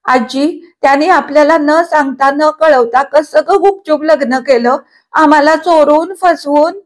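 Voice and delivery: put-on hurt girl on the verge of crying; tearful. A narrator's reading. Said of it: "रडवेल्या स्वरात म्हटले". (रडवेल्या उंच आवाजात तक्रार)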